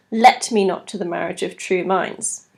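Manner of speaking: "Let" stressed as the opening beat of "Let me not to the marriage of true minds". Shown as a demonstration. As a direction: lean on "Let" to start the line. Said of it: "a stress on the very first syllable".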